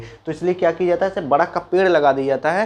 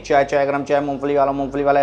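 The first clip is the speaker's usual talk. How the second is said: railway hawker call. Retold or imitated. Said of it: "वहाँ पर चिल्लाते नहीं".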